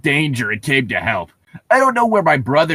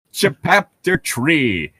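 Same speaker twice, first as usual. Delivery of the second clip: chapter title read; 2 semitones higher, much slower than usual. Acted. Reads chapter heading aloud.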